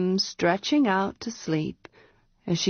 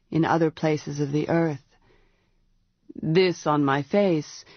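a lower, steady voice for the dragon lord; grave wizard; 4 semitones lower than usual. Acted. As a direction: speak as a calm wizard weighing each word.

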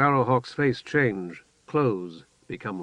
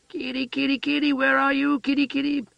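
put-on high, sing-song childlike calling; calling the kittens; 14 semitones higher than usual. A narrator's reading. Heather calls the kittens.

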